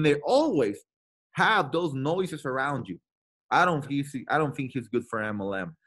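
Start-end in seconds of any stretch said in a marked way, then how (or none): 3.5-5.8 the crowd that says he won't make it; doubting naysayers. Retold or imitated. Doubters' voices again.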